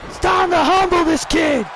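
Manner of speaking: a light Cena impression; imitating John Cena. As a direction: puff up like the champ taunting a rookie. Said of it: "you heard John Cena, he says".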